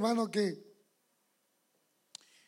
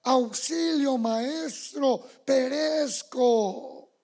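cry for help; 3 semitones higher, 6 dB louder, much slower than usual. Retold or imitated. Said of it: "Pedro, que le decía".

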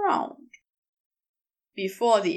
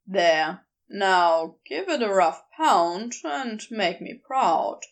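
lower, firmer man's voice; a lower Crowley, teasing and sure; Crowley's voice; 4 semitones lower than usual. Acted. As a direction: drop low and speak with easy authority.

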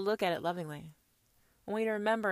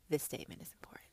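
1 dramatic whisper; 6 semitones lower, 15 dB quieter, much faster than usual. Real, not acted. Sudden whisper mid-sermon.

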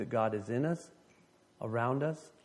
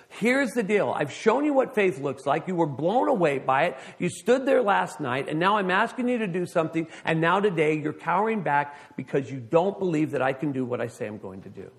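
voice of God; 2 semitones higher than usual. Acted. God's voice quoted in sermon.

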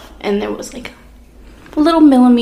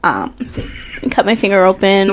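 put-on valley girl voice. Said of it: "talking like a valley girl".

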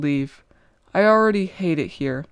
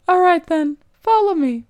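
playful guide; 10 semitones higher, 5 dB louder than usual. Acted. Nimuin's playful challenge.

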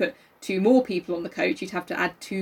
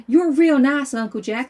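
put-on child's voice; 5 semitones higher, 5 dB louder, slower than usual. Child voice in reading.

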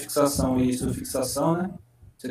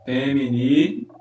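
slow spelling out; slower than usual. Shown as a demonstration. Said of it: "se liga como é tranquilo".

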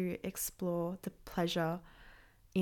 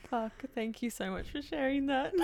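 laughing thanks; 6 semitones higher than usual. Real, not acted. Host thanks Evelyn, laughing to tears. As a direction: thank her while still cracking up.

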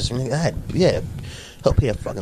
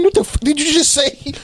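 mock outrage; 11 semitones higher than usual. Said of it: "I'm like".

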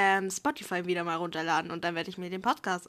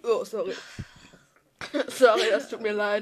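laughing apology. Real, not acted.

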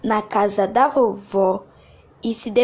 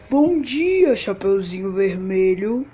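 sweet, polite wolf greeting; a wolf putting on kindness; gentle wolf voice; 3 semitones lower than usual. Acted. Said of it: "de forma gentil". (lobo com voz gentil)

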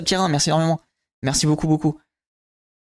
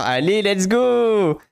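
excited donation thanks; 4 semitones higher, much slower than usual. Real, not acted. Streamer cheers after a sub.

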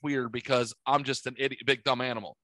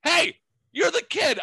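much higher, louder mock female voice; teasing ladies' voice; 4 dB louder than usual. Hotel ladies teasing the boy in elevator, high mock voice. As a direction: sing it out like amused women. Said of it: "three ladies are like".

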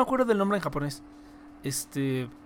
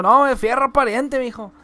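imitating a northern Mexican rancher; northern Mexican accent; 4 semitones higher, 9 dB louder than usual. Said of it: "hay gente que sí dice fierro pariente".

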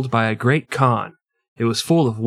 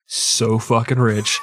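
laughing shout; slower than usual. Real, not acted. Laughing shout about wealth.

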